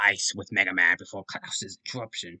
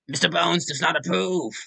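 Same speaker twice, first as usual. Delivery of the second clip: much higher and louder shout; loud disapproval; 9 semitones higher, 6 dB louder than usual. Pretend. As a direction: bellow the disapproval. Loud take of phrase.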